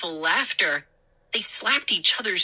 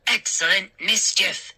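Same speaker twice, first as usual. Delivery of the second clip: gleeful cry; 2 semitones higher than usual. Acted. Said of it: "Hap cried".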